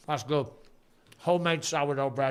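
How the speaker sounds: chewing while talking; mouth full. Real, not acted. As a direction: speak around a mouthful of bread. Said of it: "Don't speak with food in your mouth".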